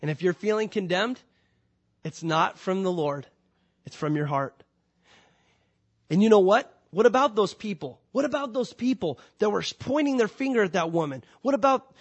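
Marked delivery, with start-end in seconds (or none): 6.1-11.9 louder and higher, building up; rising preacher's cry. Acted. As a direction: let it swell into a call from the pulpit.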